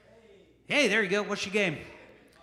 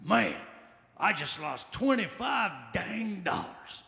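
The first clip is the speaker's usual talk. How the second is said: upset gambler; 4 dB quieter, much slower than usual. Retold or imitated. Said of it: "He's like".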